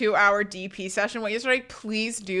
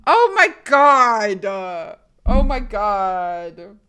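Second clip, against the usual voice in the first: exasperated; 2 semitones higher, 4 dB louder, much slower than usual. Real, not acted. Reacting to chat's question.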